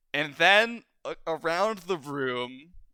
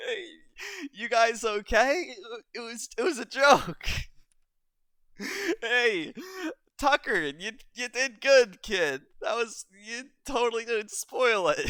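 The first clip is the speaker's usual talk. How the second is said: higher, louder, still chuckling; friendly pirate captain; 10 semitones higher, 4 dB louder than usual. Acted. Pirate lady reassuring Tucker after the joke, friendly. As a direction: reassure the stunned pair kindly. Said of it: "And she's like".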